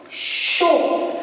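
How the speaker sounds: "Chaud" said alone, breathy and unvoiced; isolated syllable. Shown as a demonstration. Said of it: "Ça commence par le chaud". (syllabe "Chaud" isolée)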